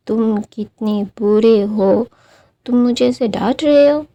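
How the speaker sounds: put-on a pouting kid snapping that you are so mean to scold him; sulky accusation. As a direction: hurl it back like a sulking child who feels wronged. Sulking Wing accuses the scolder.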